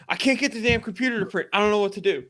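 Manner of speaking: high, rushed flustered friend; frantic and helpless, acted out; retold panic. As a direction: imitate a coworker at his wits' end. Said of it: "I can hear the panic in his voice".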